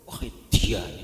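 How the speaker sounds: "edan" stretched and falling in hushed awe; admiring intonation. Shown as a demonstration. Preacher shows the slang praise, "edan" drawn out with falling tune. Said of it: "padha intonasinya".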